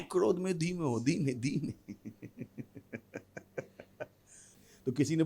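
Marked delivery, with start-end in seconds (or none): 0.0-1.9 softening to calm. Acted. Calms himself after shout.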